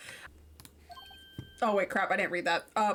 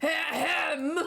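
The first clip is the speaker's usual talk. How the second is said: exaggerated throat clearing; 5 semitones higher than usual. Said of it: "the most overtop clearing of the throat".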